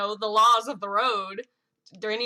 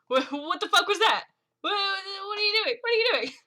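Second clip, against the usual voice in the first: high, stammering disbelief; frantic demanding; 10 semitones higher than usual. Acted. Shaking Mary after the near miss, frantic. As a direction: climb higher with each frantic question.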